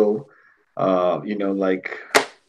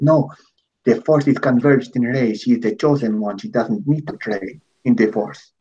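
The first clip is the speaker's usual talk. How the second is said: mocking shill voice. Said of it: "This is my Latin shill voice".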